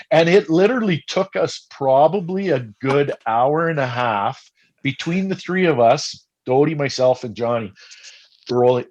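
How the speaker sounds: ordinary delivery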